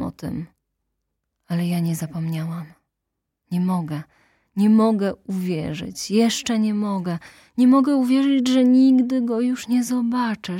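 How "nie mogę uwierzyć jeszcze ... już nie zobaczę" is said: raised, louder cry of disbelief; a widow's anguish pouring out; anguished outburst. Acted. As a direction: let the grief break through loudly. Intended's grief bursts out.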